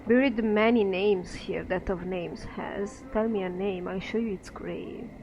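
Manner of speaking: lilting, chanting gravekeeper; lightly voiced singsong undertaker; eerie dustman voice. Dustman keeps speaking.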